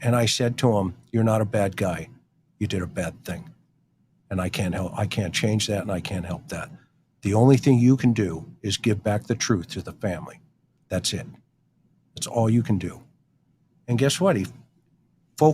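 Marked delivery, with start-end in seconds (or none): 1.1-13.0 compassionate reassurance. Retold or imitated. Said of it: "the compassion side kicks in".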